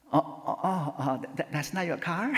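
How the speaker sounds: stammering question breaking into laughter; embarrassed, flustered. Retold or imitated. Old woman learning the car is not the newcomer's, embarrassed. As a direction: imitate a sheepish neighbor fumbling for words. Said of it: "너무나 쑥스러워지고".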